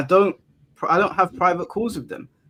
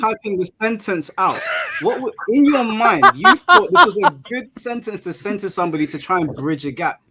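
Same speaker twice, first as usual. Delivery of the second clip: exasperated laughing; 4 semitones higher, 4 dB louder than usual. Real, not acted.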